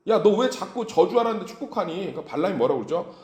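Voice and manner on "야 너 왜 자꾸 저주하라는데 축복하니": exasperated, higher-pitched complaint; acted anger. Angry Balak scolds Balaam for blessing instead of cursing, acted indignation. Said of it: "발락이 얼마나 이 화가 나겠어요".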